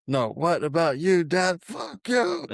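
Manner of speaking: climbing into a high mock whine, "Fuck you." squeaked up high. Bender mocking his dad's answer with a high squeak. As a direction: mimic it in a rising squeaky voice. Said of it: "He's like".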